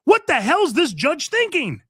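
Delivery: host repeating it to listeners, now in open exasperation; exasperated outburst. Real, not acted. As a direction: throw the question up in disbelief. Repeats question, second time raised.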